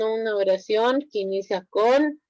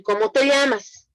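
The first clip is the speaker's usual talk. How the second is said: exclaimed tune; 4 semitones higher than usual. Shown as a demonstration. Teacher contrasting the falling version for students, falling tune. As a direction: say "¿Cómo te llamas?" as a firm falling statement. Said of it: "son diferentes, entonces la entonación es diferente".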